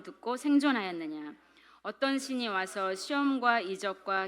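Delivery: measured, even recitation of Bible verses; scripture reading aloud. Real, not acted. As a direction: read the passage out for a group to follow. Reads scripture aloud with group.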